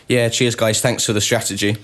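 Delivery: deadpan sarcastic thanks; imitating a driver's sarcastic sign-off. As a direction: quote it with dry, understated sarcasm. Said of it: "Dead sarcastic".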